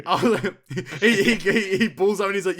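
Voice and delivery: loud, high, breaking up; laughing. Real, not acted. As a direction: struggle to tell it through laughter. Cracking up while telling the bit.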